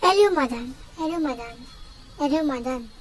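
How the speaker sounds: areumdaun pronounced as a model for learners; teacher modelling Korean 아름다운; pronunciation demo. Shown as a demonstration. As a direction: say 아름다운 as a-reum-da-un, falling at the end. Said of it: "teach you how to pronounce it".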